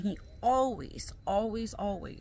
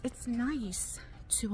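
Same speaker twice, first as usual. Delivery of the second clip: slow, breathless words; short of breath while pushing a cart; 2 semitones higher, 3 dB quieter, much slower than usual. Real, not acted. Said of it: "I'm out of breath".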